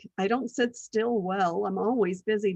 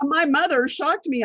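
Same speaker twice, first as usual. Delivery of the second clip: amused disbelief; 5 semitones higher, 5 dB louder than usual. Real, not acted. Still laughing at the surprise.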